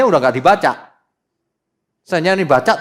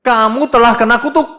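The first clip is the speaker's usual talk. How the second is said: raised, louder voice of an angry God; 8 semitones higher, 6 dB louder than usual. Acted. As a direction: thunder it as God rebuking his people. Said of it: "Ini Tuhan lagi marah". (suara Tuhan yang marah, lebih tinggi dan keras)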